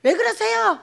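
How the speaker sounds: high, loud complaint; mock aggrieved cry; acted protest.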